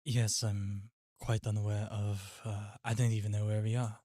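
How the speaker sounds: understated British character voice; British accent. Acted. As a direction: put on a polite British accent. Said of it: "we're putting on the British voice".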